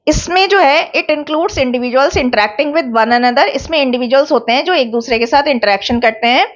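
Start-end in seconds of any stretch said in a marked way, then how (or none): 0.9-3.4 slow dictation. Shown as a demonstration. Teacher dictates a definition slowly.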